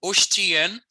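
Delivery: Oshtiyen clearly pronounced; Michif word. Shown as a demonstration. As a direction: say Oshtiyen slowly, rising. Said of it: "we learned that".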